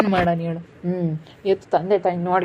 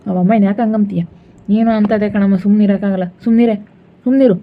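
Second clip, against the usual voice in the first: louder, rising to a sharp shout of shut up; angry hush; 4 dB louder than usual. Acted. Son silences his wife, louder angry hush. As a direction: cut her off, louder each time.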